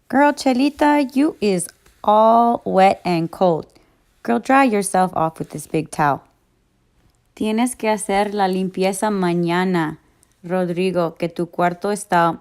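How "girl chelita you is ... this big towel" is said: put-on sassy girlfriend voice. Translates in a character voice.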